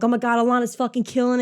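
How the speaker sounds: excited retold reaction; happy excitement. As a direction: gush proudly, rushing the words. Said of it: "I'm happy".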